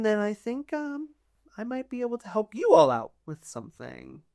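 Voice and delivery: lightly voiced, chatty noble with lively pitch swings; persuasive court noble. Court noble asking adventurers to fetch a tablet, persuasive. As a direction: stretch the key words to coax them.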